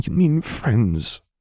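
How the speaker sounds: muffled mumble. Luke mumbles into Vader's shoulder in reply to him; mumbling. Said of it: "Luke mumbled into his shoulder".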